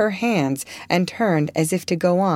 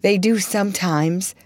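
muffled voice; 3 semitones higher than usual. Acted. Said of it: "said a muffled voice from the post".

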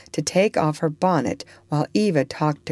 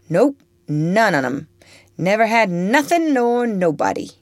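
blunt Topsy; 6 semitones higher, 4 dB louder than usual. Acted. Topsy denies having any family.

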